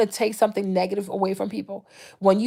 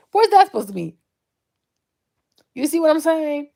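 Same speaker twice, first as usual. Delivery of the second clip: usual speaking voice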